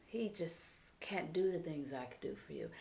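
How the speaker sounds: soft tempting whisper; whisper in the ear. Retold or imitated. Lover whispers to a married woman, hushed. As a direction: murmur it close, like a secret. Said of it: "That's the whisper in the ear".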